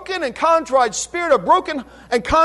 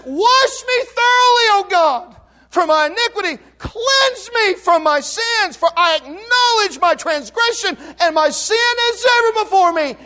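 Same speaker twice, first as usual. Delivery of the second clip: raised, pleading prayer voice of David; intoned prayer; impassioned psalm plea; 5 semitones higher than usual. Retold or imitated. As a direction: cry the psalm out to God.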